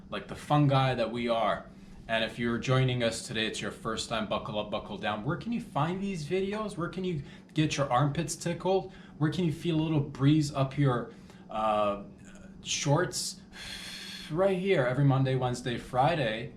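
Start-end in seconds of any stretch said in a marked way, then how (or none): 5.3-16.5 hyped promo pitch. Acted. Promo hype for the show.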